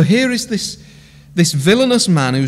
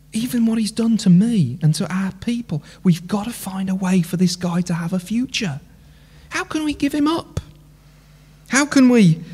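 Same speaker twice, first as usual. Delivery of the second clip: pleading mayor; 3 semitones higher than usual. Pretend. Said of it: "the mayor is standing there going".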